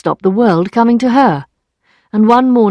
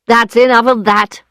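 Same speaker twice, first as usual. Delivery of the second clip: shout; 4 semitones higher, 4 dB louder than usual. Acted. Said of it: "he shouted".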